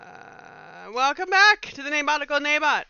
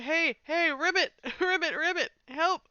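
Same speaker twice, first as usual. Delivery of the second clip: croaky frogs; 6 semitones higher than usual. Acted. Voicing many talking frogs.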